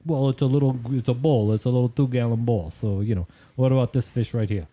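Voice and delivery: lightly imitated Jersey guy; Jersey accent. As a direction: quote him in a mild Jersey accent. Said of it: "give my best Jersey accent".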